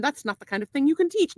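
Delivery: lightly Irish, rising formal praise; a hint of Irish in a formal testimonial; put-on accent. Rounding off praise of banker, light put-on Irish accent. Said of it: "tell me what kind of accent".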